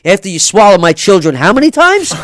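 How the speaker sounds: heated retold yell; retold angry reply. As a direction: tear into her. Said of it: "retold reply to ex".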